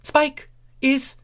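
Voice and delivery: high pleading character voice; high urgent girl voice. Acted. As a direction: tell her plainly but urgently. Starlight repeats news.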